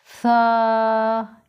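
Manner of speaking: सा said softly, a light breathy s. Shown as a demonstration. Teacher showing students a soft सा, gently. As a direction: ease gently into सा. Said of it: "या नरमी से अदा करेंगे".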